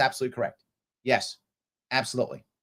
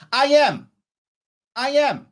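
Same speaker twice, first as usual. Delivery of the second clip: angry; 6 semitones higher, 6 dB louder, slower than usual. Real, not acted. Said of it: "Get angry, emotions be more".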